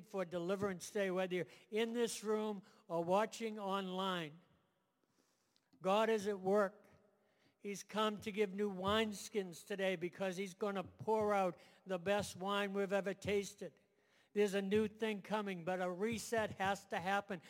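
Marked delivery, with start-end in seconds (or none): 5.8-17.4 full-force preaching. Acted. Closing exhortation at full force.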